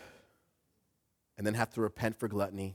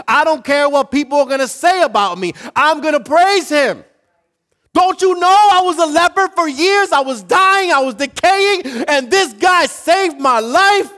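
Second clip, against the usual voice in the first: high, unrestrained joyful shouting; top-of-lungs praise; 16 dB louder than usual. Acted. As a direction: shout your praise as the healed leper, defiantly. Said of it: "At the top of his lungs, this was joy".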